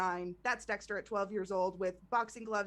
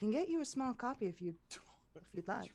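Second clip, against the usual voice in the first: soft, confiding half-whisper; 5 dB quieter than usual. A character leans in close so only the listener can hear, half-whispering. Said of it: "she leans in and she she whispers".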